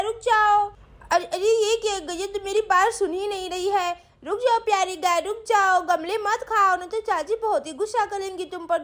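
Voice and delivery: put-on little girl Sweety. Girl Sweety talks to cow.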